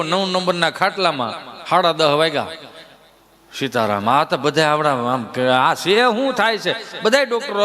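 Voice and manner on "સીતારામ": low, faint final "Sitaram."; dying patient's last word. Retold or imitated. Patient on bed nine sighing his last, low and faint.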